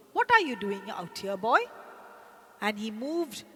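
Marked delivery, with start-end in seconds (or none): 0.1-1.6 louder, fast and sharp, like a scolding teacher; sharp loud question. Shown as a demonstration. Teacher scolds boy out after dark, sharp and loud. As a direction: bark it clearly at the boy. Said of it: "sharply, loudly, clearly".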